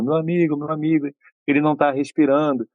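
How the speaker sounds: mock panicked yell. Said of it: "ele vai pro corredor gritando".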